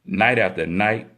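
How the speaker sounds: measured, earnest poem reading; poetry recitation. Acted. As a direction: read it as spoken-word verse, with weighted phrases and pauses between lines. Reads a submitted poem aloud.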